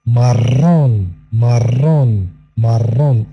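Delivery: marrón with a long trilled rr; double r. Shown as a demonstration. Teacher showing the double r in marrón. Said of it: "دوبل R".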